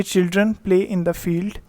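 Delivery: slow, careful read-aloud of the example; teacher dictating an example. Shown as a demonstration. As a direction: read the sentence out slowly for the class. Teacher rereads example slowly.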